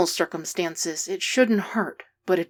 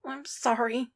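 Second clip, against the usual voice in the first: miserable; 5 semitones higher, 5 dB quieter than usual. A narrator's reading. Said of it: "Stiles says miserably".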